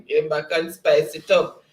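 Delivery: real laugh running into the words; amused laughing. Real, not acted. Host reading teasing chat message, laughing. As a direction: laugh first, then talk through the chuckle.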